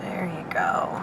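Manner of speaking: soft unvoiced whisper. Real, not acted. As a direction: breathe it out gently. Whispering as giraffe moves off.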